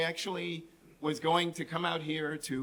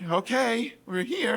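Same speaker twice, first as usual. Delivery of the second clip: slightly higher, restrained mock agreement; uneasy echo; 5 semitones higher, slower than usual. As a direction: go along with it reluctantly. His terrified echo of her cheer.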